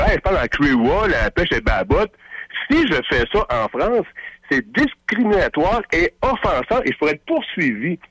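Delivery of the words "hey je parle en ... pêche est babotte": a light, slowed Haitian Creole accent; mock Haitian Creole accent, lightly done. Shown as a demonstration. Host on air, showing what could be banned, in a mild Haitian Creole accent. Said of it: "j'imite un accent, euh, haïtien, je dis".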